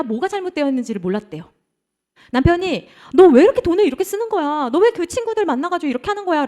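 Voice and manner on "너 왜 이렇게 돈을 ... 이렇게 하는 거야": high, raised-voice telling-off; acted high-pitched scolding; scolding husband. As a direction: nag like an exasperated husband. Husband scolding his wife's spending.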